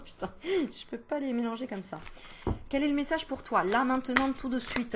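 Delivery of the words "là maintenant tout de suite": put-on a light Southern French accent on "Là, maintenant, tout de suite"; playful Marseille-style lilt; mock Southern French singsong. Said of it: "Pourquoi je prends l'accent du Sud?".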